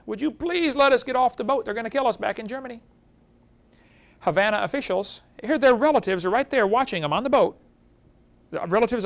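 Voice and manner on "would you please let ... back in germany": begging. Retold or imitated. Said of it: "and begged".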